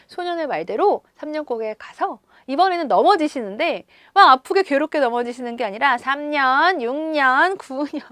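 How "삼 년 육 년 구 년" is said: playfully imagined happy counting; gleeful counting. Pretend. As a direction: count along in mock delight. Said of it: "즐겁게 넘어지는 내용이 이어진다면".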